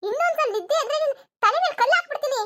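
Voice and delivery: high-pitched scolding warning; angry threat. Acted. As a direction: warn her in an acted fury.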